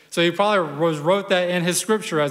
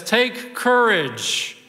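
calling back; 4 semitones higher than usual. Acted. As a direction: call out firmly over the waves. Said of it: "actually shouts back and says".

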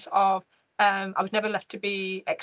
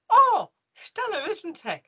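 head teacher voice; 10 semitones higher, 5 dB louder, slower than usual. Retold or imitated. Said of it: "He went, said".

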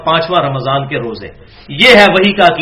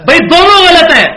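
sharp high exclamation, much louder; exasperated outburst; 11 semitones higher, 7 dB louder than usual. Real, not acted. Lecturer to audience, rejecting both sides, in a high exasperated outburst. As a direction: cry out that both are wrong.

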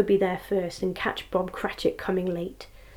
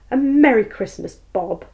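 earnest; 3 semitones higher, 7 dB louder than usual. Acted. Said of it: "with an earnestness that could not be mistaken".

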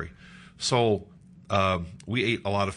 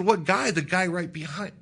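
loud, high incredulous echo; acted disbelief; 9 semitones higher, 5 dB louder than usual. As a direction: throw the question back, pitched way up. Incredulous reply to wife.

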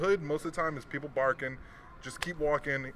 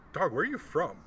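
threatening street question; imitating a hostile demand; menacing question; 5 semitones higher than usual. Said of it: "the question changes when the tone changes".

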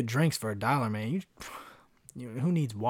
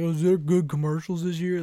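high, louder mock voice; clueless fan; 5 semitones higher, 7 dB louder than usual. Mocking fans who only watch for commercials, high and loud. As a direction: ham up a fan who only cares about the ads. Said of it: "They're like".

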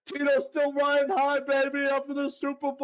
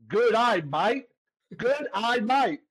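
slow mock Australian "good day, mate"; three English words run into an Australian accent; Australian accent demo; 2 semitones lower, slower than usual. Shown as a demonstration. Showing the Aussie critic how to speak Australian, Australian accent. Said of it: "It sounds like you're saying".

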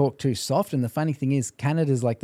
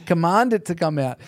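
retold exasperated correction; 4 semitones higher than usual. Minister coaching polite Canadians, retold firm correction. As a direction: cut in firmly to correct them.

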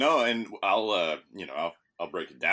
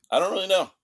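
high pitched admission; 11 semitones higher, 7 dB louder, faster than usual. Real, not acted. Admitting he doesn't know.

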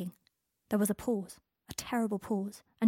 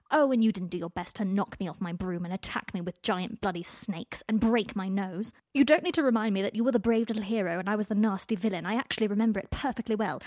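angry; 5 dB louder than usual. Acted. Harry's angry retort.

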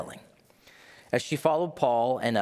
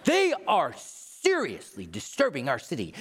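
1 Facebook complainer; 2 semitones higher than usual. Acted. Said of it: "This sounds like a Facebook post".

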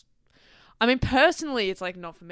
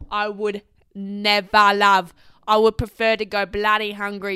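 emphatic refusal; 13 dB louder than usual. Real, not acted. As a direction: stretch the refusal out, appalled.

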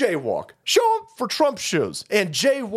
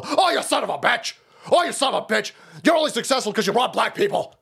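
mock outrage; 4 semitones higher, faster than usual. Mocking accuser voice.

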